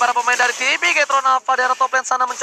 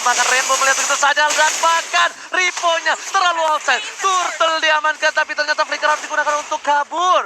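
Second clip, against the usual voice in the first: esports caster. Real, not acted. Live esports play-by-play.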